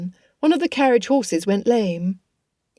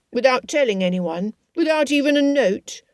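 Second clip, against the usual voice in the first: complaining Lydia; 5 semitones higher than usual. Acted.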